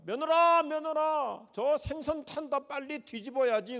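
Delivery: high, loud, urgent calling out; frantic mother-in-law. Retold or imitated. Mother-in-law shouts to lazy daughter-in-law, high and urgent. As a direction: call the daughter-in-law in a panicked rush. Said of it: "답답하다 못 견딘 시어머니께서".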